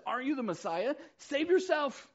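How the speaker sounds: high, loud mocking challenge; insulting jeer. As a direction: hurl it at him like an insult. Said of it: "hurled insults at him".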